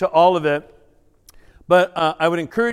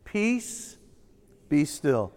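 soft repeat; 4 semitones lower, 6 dB quieter, much slower than usual. Shown as a demonstration. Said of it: "Let's say it again".

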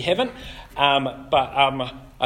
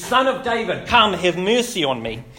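calling out; 3 semitones higher, 4 dB louder than usual. Retold or imitated. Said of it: "And so he says".

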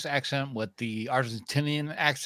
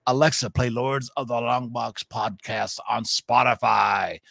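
shout. Shown as a demonstration. Calling a voice assistant.

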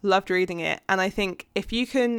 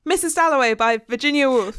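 louder, higher announced book title; rapid-fire shout-out; 5 semitones higher, 5 dB louder than usual. Real, not acted. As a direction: fire off the title like a quiz round. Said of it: "say them as fast as we can".

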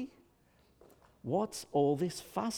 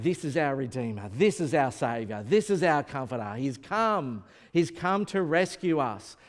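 lightly raised joyful proclaiming; excited and loud; 3 semitones lower than usual. Retold or imitated. Anna crying out about the baby, a touch excited and louder. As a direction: announce the Saviour with mild excitement. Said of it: "you hear her voice really excited, really loud".

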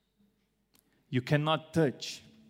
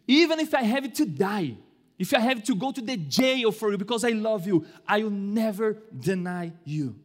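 insistent Peter; 4 semitones higher than usual. Acted. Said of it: "And Peter insisted".

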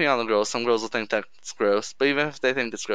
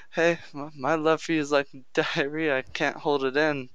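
awkward pickup line; 2 semitones higher than usual. Pretend. Guy trying a cheesy line on a girl, awkward. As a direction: stumble through it as if about to laugh. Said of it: "she's gonna be like, "You're fucking weird".

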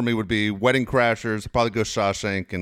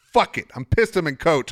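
higher, defiant "fuck it"; defiant outburst; 5 semitones higher than usual. Retold or imitated. To himself on the plane, a defiant outburst.

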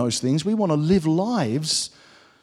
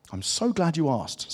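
slow, softer storybook cat reply; lightly voiced cat, savouring the question; measured and deliberate; talking cat; 7 dB quieter, slower than usual. Cat answers girl in story.

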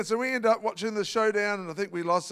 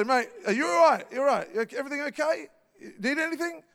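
a gently raised, caring check-in; kindest voice; 5 semitones higher, faster than usual. Retold or imitated. To a stranger crowding him in the ticket line, kindest voice. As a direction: sound as kind as you can to a pushy stranger. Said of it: "try to say it in my kindest voice".

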